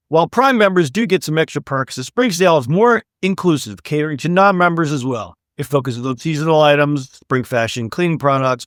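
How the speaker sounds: lively podcast news read; scripted segment read. Acted. Host presents the sale story to listeners, scripted read. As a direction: read the story out with upbeat emphasis.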